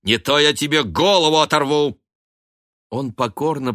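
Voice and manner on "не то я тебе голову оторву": stern threat. A narrator's reading. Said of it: "строго приказала".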